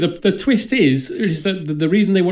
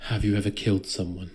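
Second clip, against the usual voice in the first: mock Bond; 6 semitones lower, 6 dB quieter than usual. Voicing Bond.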